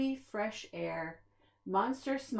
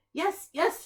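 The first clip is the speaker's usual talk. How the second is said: eager shout; 8 semitones higher, 4 dB louder than usual. A narrator's reading. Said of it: "shouted Grump".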